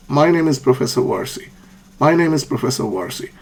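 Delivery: level, matter-of-fact tune on "My name is Professor Warsi"; neutral intonation. Shown as a demonstration. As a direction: state "My name is Professor Warsi" with little rise or fall. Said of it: "So intonation is neutral".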